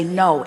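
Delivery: "No," said firmly and flatly, with finality; a firm "No," closing the question; emphatic no. Shown as a demonstration. Telling the questioner it's not their job, a firm "No,". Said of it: "emphatically no".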